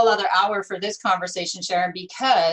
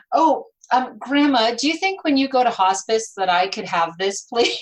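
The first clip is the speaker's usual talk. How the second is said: higher, pleading mock-child request to grandma; asking granddaughter; 3 semitones higher, 4 dB louder than usual. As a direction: imitate a daughter angling for a keepsake. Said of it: "my daughter was at her house and said".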